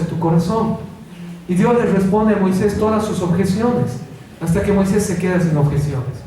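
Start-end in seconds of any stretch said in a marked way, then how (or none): none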